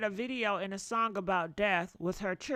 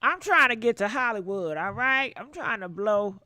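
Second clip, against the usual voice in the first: pretend ambition; 5 dB louder than usual. Plays a friend chasing fame.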